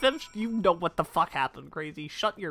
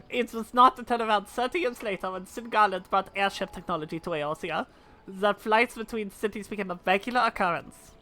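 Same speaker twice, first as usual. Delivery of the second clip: a hint of an aged gentleman narrating; lightly voiced old man; 3 dB quieter than usual. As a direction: reminisce gently like an old inventor.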